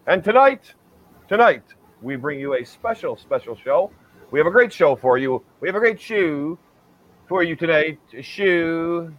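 lightly voiced Ed Sullivan; hint of old TV host; Ed Sullivan impression. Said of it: "I'm doing my best Ed Sullivan imitation".

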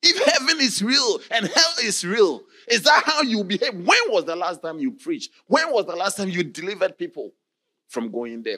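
high, loud accusing cry; angry rebuke. Retold or imitated. Condemned man angrily rebuking the priest. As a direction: scold him for his hypocrisy.

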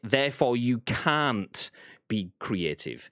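ordinary talk, nothing marked

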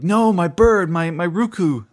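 high, loud cry of retold alarm; hammed-up panic, pitched well up; mock freak-out. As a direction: act out a villain losing his prize. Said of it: "Spiel is kind of freaking out".

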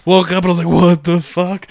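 laughing mock confusion; laughing retelling. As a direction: laugh through the confused wake-up. Retold waking up confused.

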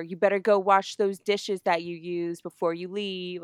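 mock bossy reminder, imitating a friend; annoying nagging. Friend ordering her to wash dishes, annoying nag. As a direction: needle them with a petty order. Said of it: "Like, just being fucking annoying".

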